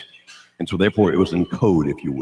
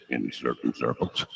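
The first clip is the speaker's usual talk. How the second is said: low, slow and soft rapper voice; deep, laid-back celebrity drawl; a rapper's deep voice; 8 semitones lower, 10 dB quieter, slower than usual. Retold or imitated. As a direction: drop the voice deep and take it slow. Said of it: "this really neat, deep, deep voice".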